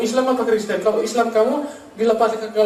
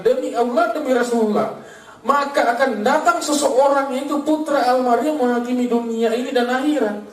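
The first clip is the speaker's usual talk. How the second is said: measured declamation, pitch raised; proclaimed prophecy; 3 semitones higher than usual. Acted. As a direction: recite it as a solemn prophecy. Declaims quoted prophecy to congregation.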